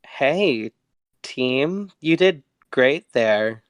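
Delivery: slow, halting praise to the team; drawn-out, slightly awkward compliment. Acted. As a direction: hesitantly congratulate the group. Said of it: "clears his throat, and he's like".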